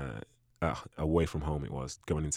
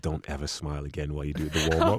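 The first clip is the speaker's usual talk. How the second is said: villain voice; 3 semitones lower than usual. Retold or imitated. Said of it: "like, a villain voice".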